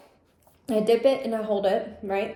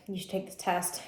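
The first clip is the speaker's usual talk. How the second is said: inner voice; 3 semitones lower, 8 dB quieter than usual. Retold or imitated. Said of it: "hear this voice in my head".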